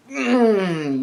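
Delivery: long high groan of frustration; gefrustreerd: frustrated groan. Real, not acted. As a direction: groan 'mm' through closed lips, exasperated. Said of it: "you make me so frustrated".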